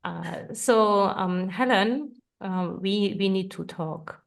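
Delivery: unsure, nervous attempt; real nerves when put on the spot. Real, not acted. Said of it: "It sounded like you, um, were really nervous".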